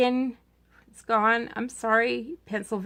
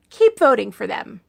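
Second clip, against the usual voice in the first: "Keep voting for them" said lower and deadpan; dry sarcasm; 3 semitones lower than usual. Acted. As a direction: drop it flat and knowing. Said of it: "that was called sarcasm".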